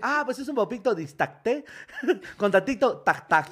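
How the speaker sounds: tono agudo de vendedor amable; vendedor yucateco. Retold or imitated. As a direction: imita al vendedor con voz alta. (vendedor yucateco con voz aguda)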